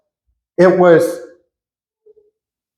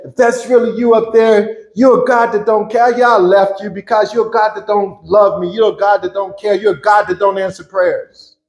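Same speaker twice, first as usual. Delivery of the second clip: higher, raised voice accusing God; lashing out at God; 5 semitones higher than usual. Retold or imitated. Man lashing out at God over his loss, bitter and raised. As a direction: hurl it at God in bitter anger. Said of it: "lashing out at God".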